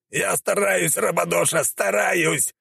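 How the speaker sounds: high, desperate warrior yelp; hammed-up high-pitched pleading; wailing. A narrator's reading. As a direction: cry out high as you strain to get away. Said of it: "завопил бедолага".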